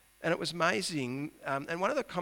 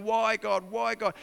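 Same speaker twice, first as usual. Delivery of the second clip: louder, higher repeated why; crying out to God; 6 semitones higher, 5 dB louder than usual. Acted. Preacher as Habakkuk crying out to God, louder. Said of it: "he's crying out to God".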